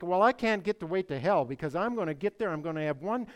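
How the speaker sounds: lightly mimicked eager partygoer; mock bravado, loud at first then easing off; mocking unbeliever. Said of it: "And they think".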